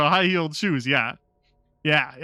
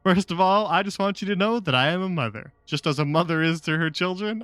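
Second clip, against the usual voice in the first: mock dramatic mother; 3 semitones higher than usual. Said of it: "Best dialogue ever written".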